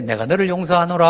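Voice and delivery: calm, lofty "내가 너를 용서하노라" at normal level; mild archaic blessing tone; solemn mock forgiveness. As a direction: pronounce the pardon serenely, unbothered. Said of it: "하고 또 괜찮고".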